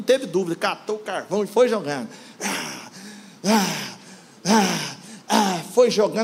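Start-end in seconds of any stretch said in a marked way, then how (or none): 2.4-5.6 repeated "ah" of exertion; effortful throwing grunts. Retold or imitated. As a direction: mimic hurling lumps, one grunt each. Mimics boy hurling coal.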